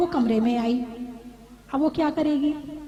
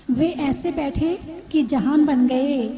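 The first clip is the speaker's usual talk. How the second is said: "वे ऐसे बैठे कि जहान बन गए" said slower with a falling close; slow it down and let "कि" carry the weight; slow, weighty repeat; slower than usual. Shown as a demonstration. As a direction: dwell on each word of "जहान बन गए".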